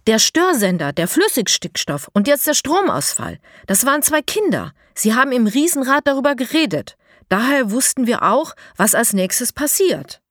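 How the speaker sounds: high, loud, rushed without a breath; barely breathing. A narrator's reading. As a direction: pour it out gasping. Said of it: "Mo holt kaum Luft beim Reden". (ohne Luft zu holen, hoch und laut)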